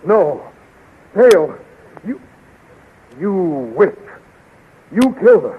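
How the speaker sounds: high, loud, anguished accusation; anguished fury. Acted. Flash accusing the queen of killing Dale, anguished and furious. Grief and rage at Dale's death.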